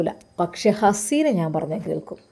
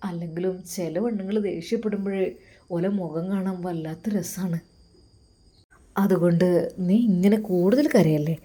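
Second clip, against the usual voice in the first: flirty sweet talk; 3 semitones lower than usual. Acted. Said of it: "അവൻ്റെ ആ കിന്നാരം പറച്ചിൽ".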